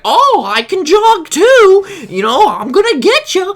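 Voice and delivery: very high, loud mock taunt; taunting yell. Man jogging after the storyteller, high taunting yell. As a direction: imitate a pursuer hollering, stretching the words. Retelling the man's taunt while chasing.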